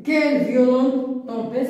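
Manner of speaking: slow exclamation with "Quelle" stressed; drawn-out exclamation on "Quelle"; exclamative reading. Shown as a demonstration. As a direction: marvel at the storm. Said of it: "c'est une phrase excla".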